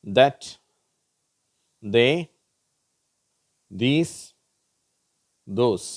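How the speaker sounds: "That, they, these, those" each begun with voiced dh, spaced apart; voiced TH words. Shown as a demonstration. Teacher giving examples, "That, they, these, those" with voiced dh. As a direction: model "That, they, these, those" loudly, one by one, with dh. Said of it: "தான்ற உச்சரிப்பு".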